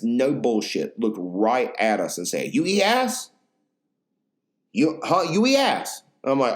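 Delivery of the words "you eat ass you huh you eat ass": much higher mock owner asking; imitating the owner. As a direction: pitch it up, blunt and pushy. Owner's blunt question retold.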